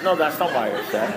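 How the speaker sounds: calm sponsor. Retold or imitated. Sponsor calmly repeats his verdict.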